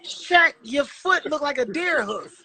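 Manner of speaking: high-pitched, laughing roast; laughing disbelief. Real, not acted. Teasing Shaq about his foot, in high laughing disbelief. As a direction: squeeze the words out high through laughter.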